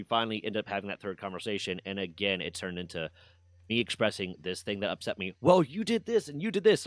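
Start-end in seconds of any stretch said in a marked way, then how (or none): 5.4-6.9 high, loud whiny mimicry of her blaming; mocking the friend. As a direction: sneer it back in her whiny voice. Mocking friend's blame again.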